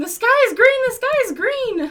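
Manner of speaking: very high, loud, shrieking scream. Retelling waking up to mom screaming a warning: imitating mom screaming. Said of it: "I wake up to her screaming".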